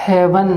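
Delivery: heaven said as "hev-un"; haven't voiced like heaven; saying haven't. Shown as a demonstration. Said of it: "आप इसे बोलेंगे".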